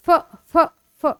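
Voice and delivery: "फ" as short, separate f sounds; teeth-on-lip फ. Shown as a demonstration. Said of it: "वो आपके lips में नीचे आ रहे हैं". ("फ" दाँत निचले होंठ पर रखकर, अलग-अलग)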